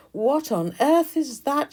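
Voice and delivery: high, loud, slow outburst; queen shouting in shock at the huge baby, high, loud and slow. Acted. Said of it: "she shouted out".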